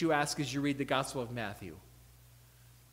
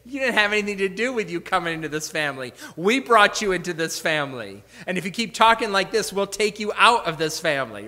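mildly indignant parent, louder and quick; mock-stern parental telling-off; parent scolding; 6 dB louder than usual. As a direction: put the child firmly in their place. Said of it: "You would say".

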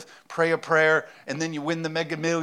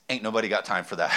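quoting a meme; 5 semitones lower, faster than usual. Retold or imitated. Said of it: "most prophetic statement ever said".

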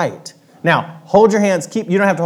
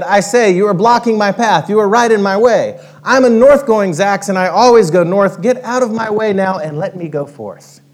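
louder, higher bossy creature voice; stubborn north-going Zax; 3 semitones higher, 4 dB louder than usual. Acted. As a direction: plant your feet and demand the path. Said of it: "the north-going Zax said".

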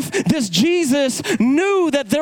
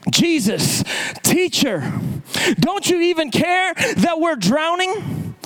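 reproachful cry, climbing much higher on the question; disciples' protest; 6 semitones higher, slower than usual. Retold or imitated. Frightened disciples to their sleeping teacher in the storm, reproachful cry. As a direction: call out in dismay, stretching the last plea. Acts out panicked disciples waking Jesus.

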